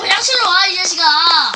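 큰 소리로 꾸짖는 선생님; 학생을 향해 소리치기. Acted. 선생님이 학생에게 호통. (호통치는 목소리)

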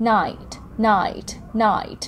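whispered night repeated slowly, vowel split; whispered demo. Shown as a demonstration. Teacher whispers night slowly for learners to copy. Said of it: "แบบนี้นะ".

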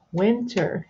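"winter" in two separate syllables, win-ter; split into syllables. Shown as a demonstration. Teacher quizzing class on syllables, "winter" broken in two. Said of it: "it's separated by two consonants".

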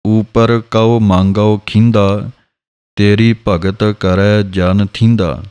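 slow measured recital; scripture recitation. Shown as a demonstration. Teacher to students, reciting the scripture line slowly. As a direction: recite it slowly, each word weighed. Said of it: "ਆਪ ਜੀ ਦੇਖੋਗੇ".

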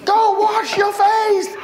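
very high, drawn-out imitated shriek; mock screaming. Singer to her in the makeup chair, mock screaming. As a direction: screech it slowly, hammed up. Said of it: "was screaming, screaming".

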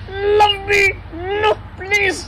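high pleading whiny voice; love me voice. Pretend. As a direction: beg for love, high and drawn out. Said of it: "that's the love me voice".

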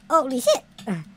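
ordinary talk

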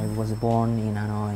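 slow, linking "born in" together; slow model sentence for a student; slow careful reading. Shown as a demonstration. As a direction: read it slowly so the sounds join up. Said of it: "chúng ta cứ luyện dần thôi".

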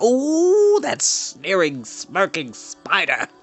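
high drawn-out "ooh", then slow loathing; relished, slow indignation; seething disgust. A narrator's reading. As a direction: curse the villain slowly through your anger. Bard rages about the villain.

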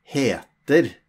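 "Heter" begun on a clearly audible H; pronounced H. Shown as a demonstration. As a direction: sound the H at the start of "Heter" for learners. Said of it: "Here we pronounce the H sound".

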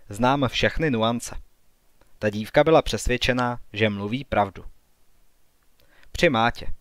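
ordinary delivery, nothing marked

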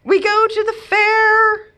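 slow, loud, high zombie chant; zombie grandpa. Acted. Zombie grandpa shuffles out the door, slow loud zombie chant. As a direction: moan it out like a dazed zombie. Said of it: "Zombie Grandpa says".

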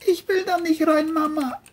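put-on a frightened boy pleading quietly with his mother; timid little boy, almost swallowed; scared child. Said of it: "ließ Billy die Hand seiner Mutter los und sagte".

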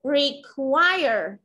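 slow word groups with pauses between them; deliberate teacher's model, repeating the hard words; chunked repetition drill. Shown as a demonstration. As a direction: break the sentence into small repeatable pieces. Teacher drills sentence in small chunks.

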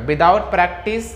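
Without practice drawn out very slowly; stressed slowly. Shown as a demonstration. Teacher warning students, Without practice said very slowly. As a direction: stretch Without practice for emphasis. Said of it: "teacher stressing practice".

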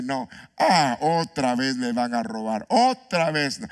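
exasperated mock lament; mock complaint. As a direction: wail it lightly like a put-upon complainer. Acting out a defeated believer's complaint.

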